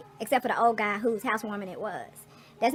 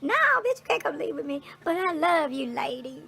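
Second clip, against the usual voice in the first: playful scold; 5 semitones higher, 3 dB louder than usual. Retold or imitated. Answering the baby.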